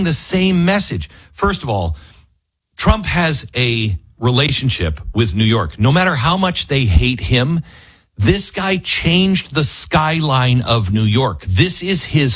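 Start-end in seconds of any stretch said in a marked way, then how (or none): none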